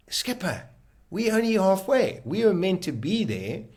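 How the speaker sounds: a high shocked outburst to the skipper; alarmed disbelief. Retold or imitated. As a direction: blurt it out in shock. Alarmed at time on GPS.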